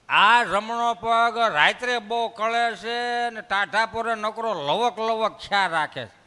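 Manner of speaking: put-on slow old grandpa complaining; slow old man. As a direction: drag the words like a tired old man. (ધીમા ઘરડા દાદાનો અવાજ)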